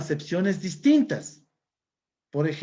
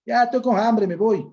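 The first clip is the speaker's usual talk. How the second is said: loud coastal Montubio voice, "hambre" with a rough aspirated j sound; Montubio accent; 4 semitones higher, 6 dB louder than usual. Retold or imitated. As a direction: play a hungry Montubio farmer, louder. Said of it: "el Montubio, dice".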